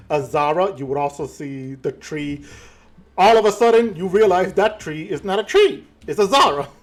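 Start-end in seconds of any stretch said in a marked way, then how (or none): 3.2-6.7 louder, rising reveal; dramatic reveal. Acted. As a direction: build up the surprise.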